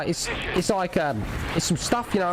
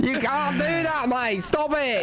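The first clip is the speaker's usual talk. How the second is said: higher, pleading mate; 8 semitones higher, slower than usual. Pretend. Pleading repetition.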